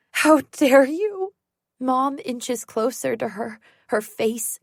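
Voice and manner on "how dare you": slow, loud and higher, how hit hardest; the second time even angrier; furious mother. Acted.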